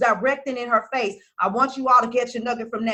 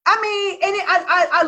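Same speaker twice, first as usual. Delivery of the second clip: laughing; 6 semitones higher than usual. Real, not acted. Laughing after the outburst.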